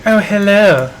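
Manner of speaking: a mock character voice for a laugh; Amazon voice. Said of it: "do your Amazon voice for Andy".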